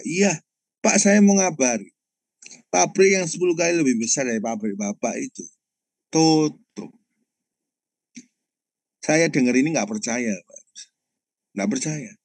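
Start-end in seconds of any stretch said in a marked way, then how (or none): 0.0-6.9 driver breaking news. Retold or imitated. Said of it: "itu supirnya supplier".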